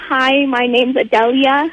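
slow, lightly put-on American accent; a careful, slow mock American accent; a British caller trying an American accent. Shown as a demonstration. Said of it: "You wanna hear my American accent?".

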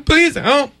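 high, slow, whiny pleading; pleading sad kid. Retold or imitated. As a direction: beg like a sad little kid. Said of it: "that's what he did".

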